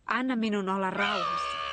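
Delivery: a sharp shouted retort; angry outburst. Acted. A toy blamed by friends, shouting back. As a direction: push them away with a shout.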